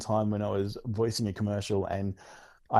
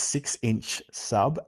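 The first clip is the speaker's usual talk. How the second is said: each word drawn out slowly; very slow, careful; much slower than usual. Retold or imitated. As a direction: say "six-inch sub" slowly, word by word. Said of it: "I kept screwing it up".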